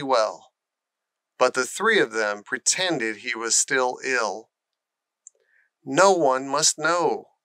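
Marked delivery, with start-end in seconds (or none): 5.8-7.4 insisting. Acted. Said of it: "Colin insisted".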